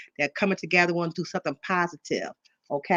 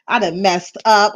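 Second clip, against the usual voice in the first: nervous laugh; 8 dB louder than usual. Real, not acted. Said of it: "I'm just so nervous".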